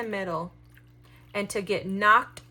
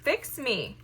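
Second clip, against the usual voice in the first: lightly voiced infant, higher and slow; mock baby plea; 4 semitones higher than usual. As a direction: plead like a small child, lightly. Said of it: "an infant baby saying".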